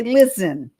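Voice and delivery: Listen with a long hissing s; drawn-out s like a snake. Shown as a demonstration. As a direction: stretch the s in Listen, L-I-SSSS-en. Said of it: "'Cause that's what I say".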